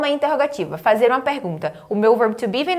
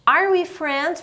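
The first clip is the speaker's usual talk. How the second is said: higher-pitched, joined-up question; repeat-after-me model; 6 semitones higher, slower than usual. Shown as a demonstration. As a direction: pitch it up for learners to copy.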